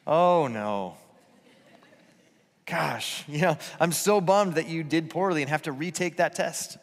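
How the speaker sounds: lightly voiced, gentle disappointment for the kid; on their side, not punishing; sympathetic parent. Shown as a demonstration. Parent to the kid retaking a test, commiserating. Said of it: "Looks like this".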